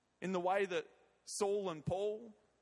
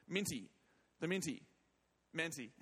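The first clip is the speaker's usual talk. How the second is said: mentee said as Minty in a New Zealand accent; New Zealand accent turning mentee into Minty. Shown as a demonstration. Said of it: "Sorry, that's the New Zealand accent".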